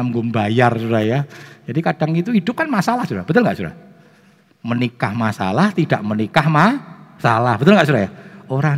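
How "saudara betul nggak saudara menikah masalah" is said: normal talking voice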